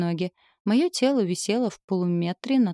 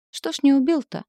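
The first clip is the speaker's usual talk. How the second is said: mocking taunt; 7 semitones higher, 4 dB louder than usual. Heroine taunts demon.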